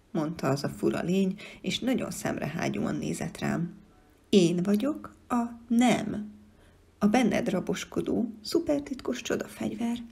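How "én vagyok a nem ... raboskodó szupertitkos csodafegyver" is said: creature voice. Acted. The No creature introduces itself.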